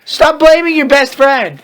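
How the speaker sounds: teasing scold; mock scolding. Real, not acted. Scolding the fic author.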